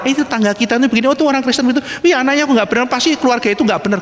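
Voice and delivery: rapid, chattering mock gossip. Preacher imitating churchgoers gossiping about neighbours, rapid chatter. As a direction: rattle it off like a busybody. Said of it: "kita gosip".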